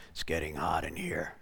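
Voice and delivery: very low, hushed demon. Retold or imitated. Demon complaining to the praying preacher, deep and soft. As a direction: drop deep and quiet, as a demon. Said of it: "looks at me and says".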